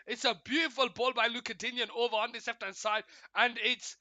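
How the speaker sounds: animated match call, swelling on the shot; live play-by-play. Real, not acted. Streamer calling Watkins's shot at the near post, live play-by-play. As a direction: build with the attack, punch the chance.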